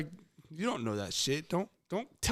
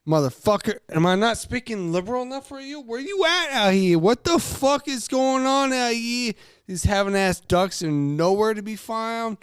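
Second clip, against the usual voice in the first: mock frustrated hunter; 8 semitones higher, 3 dB louder than usual. Frustrated hunter yelling at ducks.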